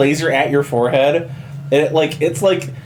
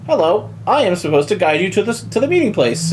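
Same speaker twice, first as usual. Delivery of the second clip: beeping droid; 4 semitones higher, faster than usual. Acted. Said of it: "kind of beeps like".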